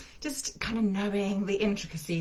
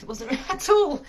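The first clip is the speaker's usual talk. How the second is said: high, loud laugh breaking through the words; giggling through a self-conscious aside; 6 semitones higher, 6 dB louder than usual. Real, not acted. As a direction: laugh it off, amused at yourself. Laughs at own breathlessness.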